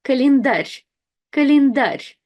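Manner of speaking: Календарь ending on a soft, palatalized рь; soft final r. Shown as a demonstration. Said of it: "we have the soft sign at the very end".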